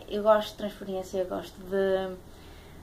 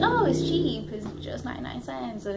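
acting out a bargain spotted, higher pitched; pleased shopper's thought; 4 semitones higher than usual. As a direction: pitch lifts high, then settles. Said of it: "e tu pensas".

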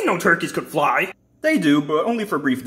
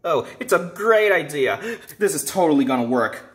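mock approval, sinking in pitch; sarcastic; 2 semitones lower than usual. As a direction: pretend to love the idea, sarcastically. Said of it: "I'm being sarcastic".

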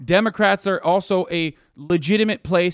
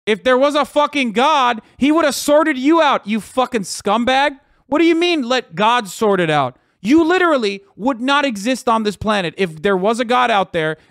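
shouting higher and much louder, full of contempt; furious shout; 6 semitones higher, 5 dB louder than usual. Real, not acted. Yelling at state legislators who say let God sort it out, furious shout. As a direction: blast him as a scumbag at the top of your voice. Ranting at anti-abortion legislators.

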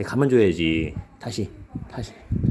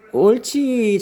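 excited praise; 9 semitones higher, 7 dB louder than usual. Real, not acted. Praising dog after fetch.

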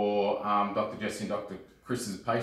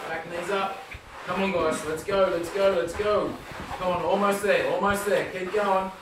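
hoarse marathon cheering; 5 semitones higher than usual. Real, not acted. Coach cheering on timed challenge.

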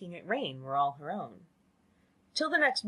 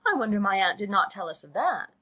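louder, put-out exclamation; crying out; 3 semitones higher, 6 dB louder than usual. A narrator's reading. Lydia wondering at her aunt's silence, crying out. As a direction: burst out with girlish surprise. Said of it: "cried Lydia".

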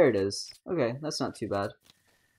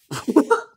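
laughing; 12 semitones higher, 7 dB louder than usual. Real, not acted. Laughs after streamer joke.

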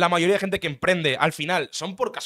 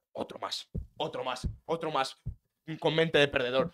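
hushed, lower mocking imitation of the guru; 3 semitones lower, 5 dB quieter than usual. Imitating the guru sneering at his followers, hushed and low. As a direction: mutter it like a smug guru sneering at a loser.

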